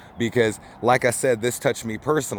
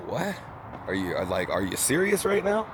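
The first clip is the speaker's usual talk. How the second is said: amused disbelief; 5 dB quieter than usual. Retold or imitated. Retelling his reaction to friend's question, incredulous. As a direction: let the pitch leap up in mock disbelief. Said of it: "I just started laughing, and I was like".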